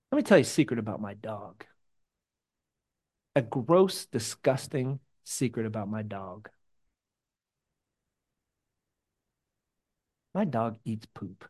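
low, hushed confession; confiding a secret. Real, not acted.

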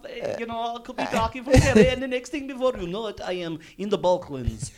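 accent drifting from Irish to Balkan, high at first; accent sliding into Polish. Shown as a demonstration. Co-host showing how their accents drift, sliding into Polish. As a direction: start high, end in a mock Eastern European accent. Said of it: "all my accents end up then in fucking Polish".

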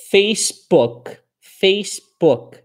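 slow "Facebook" ending on a silent k; Facebook no final i. Shown as a demonstration. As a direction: stop dead on the k of "Facebook". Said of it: "não tem Facebook".

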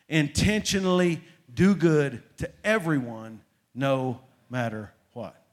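emphatic group-recital lead on "Intentionally do good to everyone no matter what"; with emphasis. Shown as a demonstration. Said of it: "Everyone say it with emphasis".

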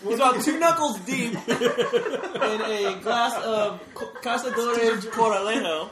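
laughing mock announcement to the room; mock announcer. Friend teasingly announces the tequila to the crowd, laughing mock announcer. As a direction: play the ringside announcer while laughing.

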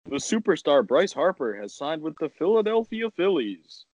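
mock broadcast announcer read.

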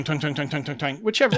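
repeated twangy bowstring sounds; bowstring twang. Retold or imitated. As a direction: pluck the bowstring over and over. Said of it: "or we could go twang".

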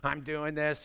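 ministry worker griping that nobody helps, whiny; griping minister. Retold or imitated. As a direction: mope and grumble, feeling unappreciated. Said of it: "people in ministry that are griping".

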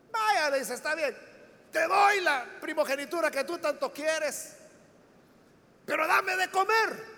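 a hammed-up famished man pleading for a meal; hungry Esaú pleading. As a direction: half-shout the deal, desperate for food. Esaú begs Jacob for food.

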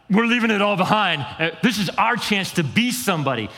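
voicing fishermen thrilled to leave everything; excited fishermen. Fishermen answering Jesus's call, thrilled and eager. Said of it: "they're gonna be like".

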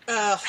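short exasperated "ugh"; eye-roll groan. Real, not acted. Groaning at her long-distance co-host's podcasting enthusiasm, exasperated. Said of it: "Can you see my eye roll".

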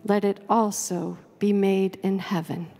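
measured covenant prayer, each phrase given room; slow, thoughtful prayer. Real, not acted. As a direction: read slowly and reverently, pausing after each phrase. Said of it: "read it slowly and thoughtfully".

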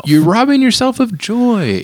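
high, slow, mock-dramatic wail. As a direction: overact the scolding, drawn out. Playful overstatement, echoing cohost.

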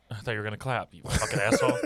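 ordinary talk, nothing marked

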